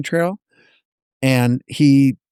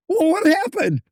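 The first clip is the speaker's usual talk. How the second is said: pitched higher, more insistent; higher, more urgent retold demand. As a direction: push harder for the answer. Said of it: "I'm almost yelling at him".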